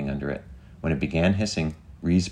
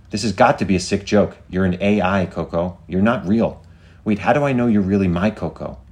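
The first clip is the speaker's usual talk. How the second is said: higher, louder challenge; disbelieving protest; 4 semitones higher, 5 dB louder than usual. Acted. Woman doubting the AI's love confession, incredulous.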